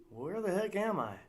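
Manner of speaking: loud, high confusion; bewildered outburst. Acted. Uncle Jack snapping out of it, confused outburst. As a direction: blurt it, suddenly lost.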